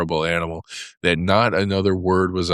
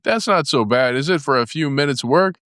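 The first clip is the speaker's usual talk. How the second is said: raised, swaggering Toad voice; boastful Toad; 9 semitones higher than usual. A narrator's reading. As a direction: brag like a cocky toad. Toad boasts of his deal.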